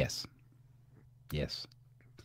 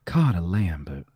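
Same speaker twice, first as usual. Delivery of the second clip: Southern accent; 5 semitones lower than usual. Shown as a demonstration. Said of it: "Say it with a Southern accent".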